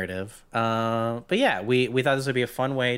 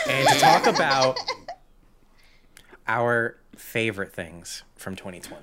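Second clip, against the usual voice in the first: piss voice. Acted. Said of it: "so I'm doing the piss voice".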